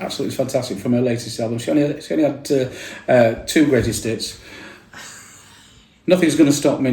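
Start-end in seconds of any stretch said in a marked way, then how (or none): 0.0-1.6 quick DJ link. Retold or imitated. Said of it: "I said".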